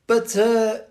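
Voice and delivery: loud, high, delighted; excited. Real, not acted. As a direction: burst out with delight. Excited greeting of guest.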